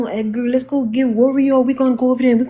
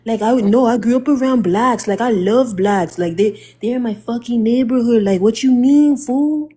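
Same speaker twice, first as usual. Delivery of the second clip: mock Hispanic accent. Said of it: "you can tell a Hispanic accent".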